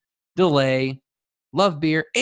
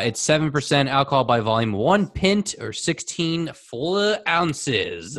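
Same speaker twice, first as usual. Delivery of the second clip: label reading. Acted. Reading the can label formally.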